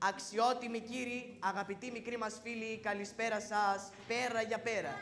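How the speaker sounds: announcer. Acted. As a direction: present the show to the audience. Child announces the evening show.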